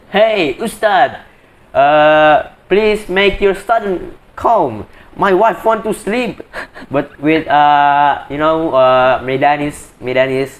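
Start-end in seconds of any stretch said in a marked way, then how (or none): 0.1-6.4 high, drawn-out mock yell in a Medan accent; mock scream. Man complaining to the Ustad so his wife can sleep, mock scream. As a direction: imitate an annoyed man's slow, high-pitched complaint, without real shouting. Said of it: "sit down and scream".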